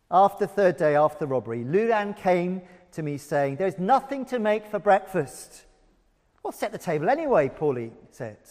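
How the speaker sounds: lively read-aloud with voiced figures; story reading. Preacher reading Pauline Hamilton's memoir to the congregation, animated. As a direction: bring the memoir to life.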